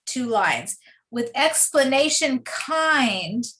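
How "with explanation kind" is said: "With explanation kind" slowly, lingering on KIND; measured "With explanation kind", landing on KIND; rhyme brought out. Shown as a demonstration. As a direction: stretch "kind" at the line's end. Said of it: "exact rhyme in the next".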